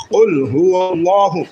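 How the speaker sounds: slow, heartfelt কুল হুয়াল্লাহু; from the heart. Shown as a demonstration. Teacher urging students to recite sincerely: slow, heartfelt. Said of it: "একবারে হৃদয় থেকে বলবেন".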